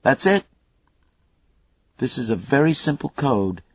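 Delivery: taunting killer. Acted. Killer Mayle taunting Lucas over the phone, cocky and loud. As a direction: goad the cop, enjoying himself.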